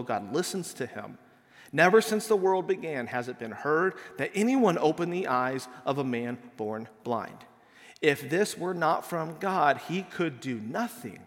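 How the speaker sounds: measured, solemn Bible reading; scripture reading. Acted. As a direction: read the passage aloud to the congregation.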